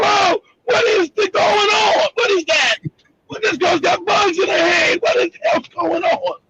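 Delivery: high-pitched frightened shouting, retold; panicked kid's yelling. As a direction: yell like a scared seven-year-old. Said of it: "I said".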